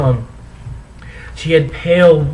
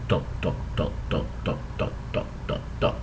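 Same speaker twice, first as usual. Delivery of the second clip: dots fading to a whisper; 10 semitones lower, 14 dB quieter, faster than usual. Pretend. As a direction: trail off into a whisper. Reading ellipsis dots.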